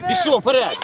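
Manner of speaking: loud shout urging forward; yelling from the sidelines. Real, not acted. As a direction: call it out across the pitch.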